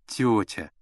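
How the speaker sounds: ordinary delivery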